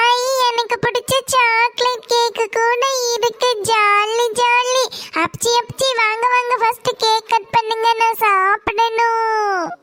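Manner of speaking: put-on excited child. Child thrilled at chocolate cake.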